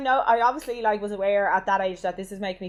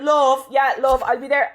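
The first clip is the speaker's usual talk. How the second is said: put-on Limerick accent; 4 semitones higher, 6 dB louder, slower than usual. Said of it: "getting more and more Limerick".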